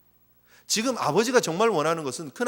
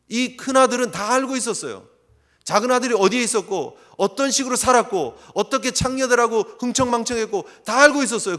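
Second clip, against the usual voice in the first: 다 stretched long and higher; emphatic 다; 4 semitones higher, 5 dB louder than usual. Real, not acted. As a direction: lean hard on 다 in 다 알고. Stressing the son knew everything.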